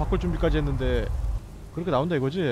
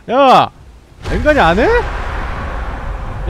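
much louder indignant shout; outraged yell; 4 semitones higher, 7 dB louder, much slower than usual. Real, not acted. Gamer yelling at the boss's unfair attack, outraged shout. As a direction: bellow it in disbelief.

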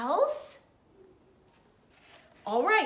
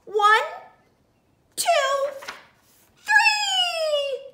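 surprised count; 13 semitones higher, 5 dB louder, much slower than usual. Acted. Piggy counting eggs.

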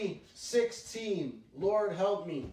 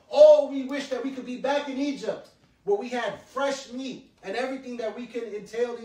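lightly hammed-up grumbling of the people, louder; mock whining complaint; 3 semitones higher, 7 dB louder than usual. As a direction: act out the Israelites' whining for meat. People complaining voiced in story.

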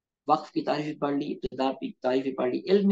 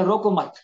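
"रोको मत" as one higher phrase, then stop; pause after मत; 4 semitones higher, 5 dB louder than usual. Shown as a demonstration. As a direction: join रोको to मत and break there. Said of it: "यानी उसको नहीं रोकना".

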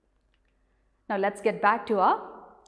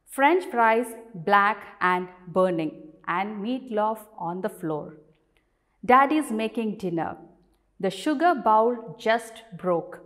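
clear, measured classroom poem reading; teacher's recital with firm line openings; poem read aloud; 3 dB louder than usual. Acted.

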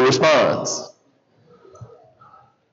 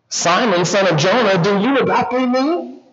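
questioning; 4 semitones higher than usual. Retold or imitated. Jesus asks Peter a second time, questioning. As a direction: lift the pitch and stretch the final words.

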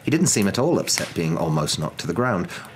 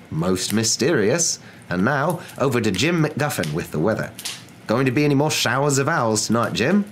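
lilting, higher-pitched studio handover; TV newscaster; 5 semitones higher than usual. Acted. Newscaster handing over to Jim, chatty broadcast voice. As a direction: banter brightly on air.

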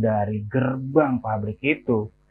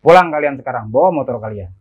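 brash, louder command at the start; cocky order; 6 dB louder, faster than usual. Acted. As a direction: send them off with a swagger. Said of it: "dengan petantang petenteng yang menyuruh".

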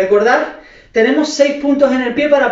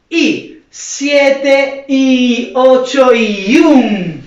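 slow, stretched-out dance count; drawn-out count; much slower than usual. Shown as a demonstration. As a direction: stretch each beat as you count the move. Counting dancers through the move. (cuenta lenta y alargada)

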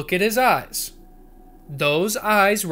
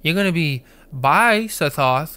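mock taunt; 6 semitones higher, 4 dB louder than usual. Taunting a game character.

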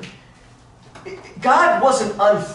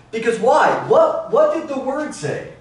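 calling out; 6 semitones higher than usual. Real, not acted. Preacher quizzing the class.

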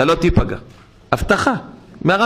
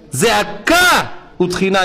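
shouted plea; 3 semitones higher than usual. Real, not acted. Shouted in sermon.

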